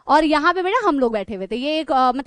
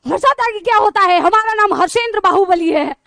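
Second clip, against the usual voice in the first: mock angry protest; 3 semitones higher, 5 dB louder than usual. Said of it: "एकदम गुस्से में गए".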